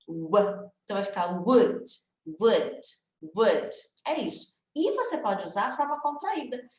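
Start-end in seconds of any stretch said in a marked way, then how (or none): 0.0-0.7 "w" as a lone rounded glide, low; teacher's demo of the "w" sound; isolated W sound. Shown as a demonstration. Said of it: "ele tem esse som de w". 1.5-3.7 "would" repeated singly with a rounded W start; isolated "would", one syllable with a short oo; pronunciation drill. Shown as a demonstration. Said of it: "ele tem esse som de w".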